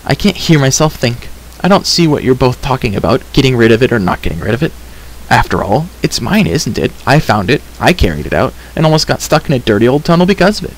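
lightly voiced indignant girl, rattling off complaints; a hint of a put-out young heroine; exasperated girl character.

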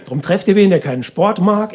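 normal talking voice

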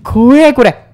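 high frightened shout; hit hard crying out. Real, not acted. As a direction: cry out in real fear. Scared during horror game.

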